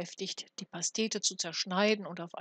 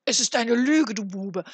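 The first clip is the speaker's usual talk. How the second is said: loud, higher furious duke; angry outburst; 3 semitones higher, 9 dB louder than usual. A narrator's reading. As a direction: spit the accusation at him. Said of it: "stieß ihn mit dem Fuße von sich".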